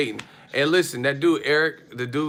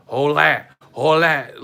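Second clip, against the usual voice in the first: mock loud reply; 2 semitones higher, 8 dB louder than usual. Neighbors arguing through hotel wall.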